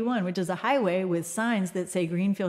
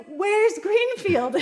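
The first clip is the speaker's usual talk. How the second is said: high, loud, drawn-out mock cry; imitated desperate plea; 12 semitones higher, 6 dB louder, much slower than usual. Lost driver begging a passing motorist for directions, desperate. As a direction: call it out slowly, pleading, high and loud. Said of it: "It was obviously a desperate hand".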